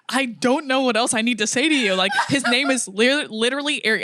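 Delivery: retold tearful insistence. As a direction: imitate pleading near tears, half laughing. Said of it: "And I start crying on Skype".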